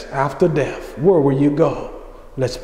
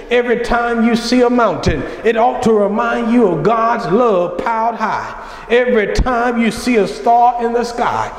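raised, ringing pulpit voice; impassioned sermon cadence; full-force preaching; 3 semitones higher than usual. Acted. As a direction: preach it out to the congregation, lifting each line. Preacher builds the flower illustration.

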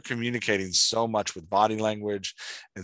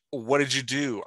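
"What did you do?" said as a mild demo scream, a bit higher; mock scream; 5 semitones higher than usual. Shown as a demonstration. Coach demonstrating how a screamed tag changes the line. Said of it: "I screamed".

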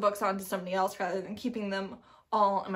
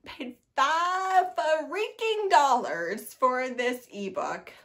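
exasperated emphasis; 3 semitones higher, 5 dB louder, much slower than usual. Real, not acted. Complains about the price.

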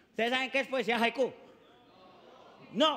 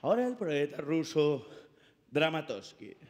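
much lower, grand announcer voice; solemn announcer; 6 semitones lower than usual. Retold or imitated. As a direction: present the poet pompously. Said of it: "Sale el presentador y dice".

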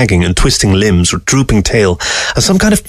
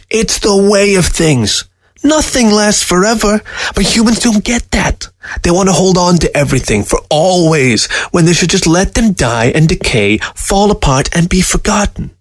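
scornful fox; 9 semitones higher than usual. A narrator's reading. Fox lecturing Newberg with scorn.

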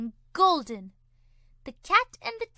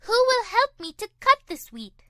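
higher, louder hen voice; hen asking; 7 semitones higher, 7 dB louder than usual. A narrator's reading. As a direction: call out for help. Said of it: "said the Little Red Hen".

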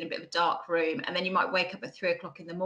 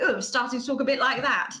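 amused self-quote; 6 semitones higher, 5 dB louder than usual. Retold or imitated. Catching her accent shifting, amused.

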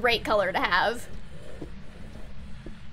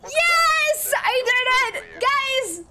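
excited cheer; 12 semitones higher, much slower than usual. Real, not acted. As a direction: yell it out in triumph. Correct ghost guess, celebrating.

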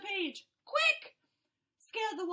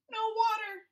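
louder, higher panicked cry; desperate cry; 6 semitones higher, 6 dB louder than usual. Acted. Fish stranded without water.

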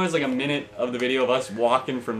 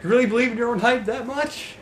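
high mock Jesus voice; 13 semitones higher, 7 dB louder than usual. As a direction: boom it out as Jesus. Still playing Jesus.

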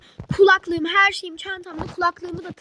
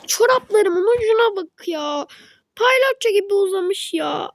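mock whiny wail; 4 semitones higher than usual. Girl whining about her stretched socks, mock crying.

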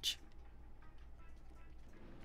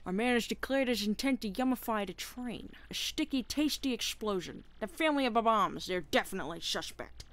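detective penguin voice; 3 semitones higher than usual. Acted.

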